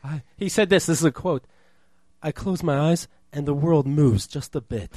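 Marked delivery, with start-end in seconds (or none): 2.2-4.9 lightly imitated drunk friend; gently put-on tipsy confession; teasing "gay voice". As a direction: quote him with slight campy wooziness. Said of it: "didn't say it in that gay voice".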